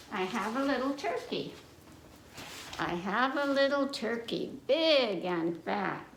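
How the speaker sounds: sing-song nursery rhyme reading; children's rhyme. Acted. Reader reciting to young listeners, sing-song rhyme.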